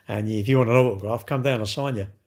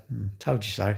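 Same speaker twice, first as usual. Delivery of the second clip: smug told you so; 4 semitones lower, 6 dB quieter than usual. Retold or imitated. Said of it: "when it fucks up and you go".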